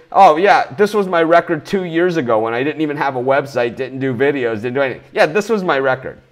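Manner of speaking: smug, dismissive parody of a tout; mocking quote. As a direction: sneer at their excuses. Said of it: "if you want to know what my record is".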